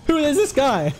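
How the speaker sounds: lightly voiced outraged Five Pebbles; imagined Five Pebbles. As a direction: play the annoyed overseer catching an intruder. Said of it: "Would he be like".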